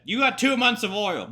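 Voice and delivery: high-pitched, incredulous outburst; mock alarmed warning. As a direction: raise the pitch and exclaim it in disbelief. Exasperated warning acted as a general.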